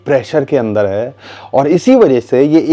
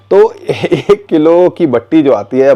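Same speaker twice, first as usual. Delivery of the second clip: slow amused chuckle through the words; laughing; 3 semitones higher, 3 dB louder than usual. Real, not acted. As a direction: laugh while naming the batti. Chuckling over local word batti. (हँसते हुए धीरे से)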